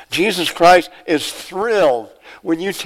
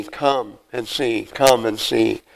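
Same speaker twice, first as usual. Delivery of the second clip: gentle invitation; 4 semitones lower, slower than usual. Acted. Christ inviting you and me, slow and tender. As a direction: coax them in tenderly.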